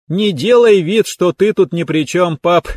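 high, loud laughing rebuke to her father; laughing at dad. A narrator's reading. Дочь со смехом стыдит отца, стукнув кулачком, высоко и громко. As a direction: playfully scold dad through laughter. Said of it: "со смехом стукнула его кулачком".

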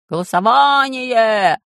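high, loud, slow chant; shouted demand. Acted. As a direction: nobles shouting for a vote. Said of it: "закричали остальные вельможи".

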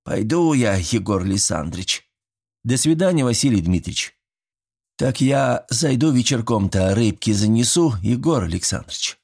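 put-on a sly old man coaxing his neighbor; folksy old villager. Old Mitrich inviting Yegor over for fish, chatty and folksy.

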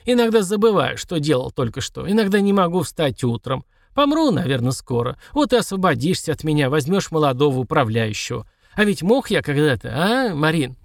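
put-on wistful old man; old prospector. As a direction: reminisce like an old codger. Old servant voiced.

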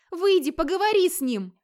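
high, loud begging on her knees; a wife begging through tears; desperate pleading. Acted. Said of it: "на коленях умоляла мужа".

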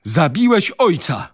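high, loud wail; moaning accusation.

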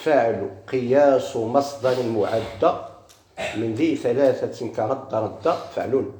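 slow measured recitation of a grammar verse; reciting verse. Shown as a demonstration. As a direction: draw each word out slowly as in a chanted poem. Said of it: "هذا البيت".

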